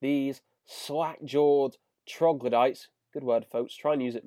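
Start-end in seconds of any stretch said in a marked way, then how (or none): 0.0-2.9 mock Burns sneer. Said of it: "it's pretty much saying".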